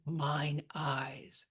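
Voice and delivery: mine and eyes equally stressed; spondee. Shown as a demonstration. Teacher scanning verse, mine and eyes both stressed. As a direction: give mine and eyes a full beat each.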